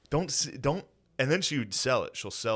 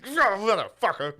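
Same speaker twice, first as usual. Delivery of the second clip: high, slow mock-furious curse; hammed-up angry yelp; imitated outburst; 8 semitones higher, 4 dB louder than usual. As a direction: burst out cursing like the startled victim. Re-enacts Phil's angry outburst.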